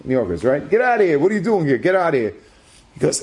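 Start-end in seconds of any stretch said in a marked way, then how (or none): 0.7-2.3 gruff brush-off. Retold or imitated. Utility worker shooing him off.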